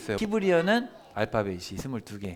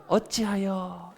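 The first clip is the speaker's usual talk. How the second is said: slow lament; 6 semitones higher, much slower than usual. Shown as a demonstration. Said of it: "책의 제목은 에카예요".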